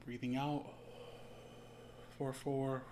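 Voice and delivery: slow, paused breathing-meditation count; guided breathing count. Shown as a demonstration. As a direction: count them gently through each breath, leaving space.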